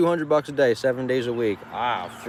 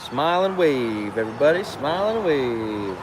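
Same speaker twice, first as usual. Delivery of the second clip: smile and wave. Acted. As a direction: deliver it like a cheerful order. Quoting to passing drivers.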